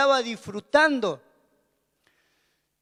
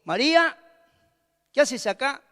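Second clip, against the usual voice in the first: higher, sharp questioning tone; sharp call; 4 semitones higher than usual. Shown as a demonstration. The Lord at the tomb, not like this: sharp and demanding. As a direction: snap her name like a reproach. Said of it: "el Señor no le dijo".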